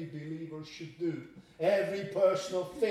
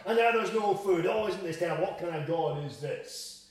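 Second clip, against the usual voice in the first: mock whining complaint; lightly voiced hopeless grumbling. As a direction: whine like the grumbling Israelites. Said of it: "grumble and complain and murmur and say".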